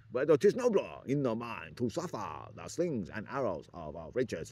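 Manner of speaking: loud, hammed-up mock Asian accent reciting Hamlet. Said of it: "Imagine if Stalin was Oriental".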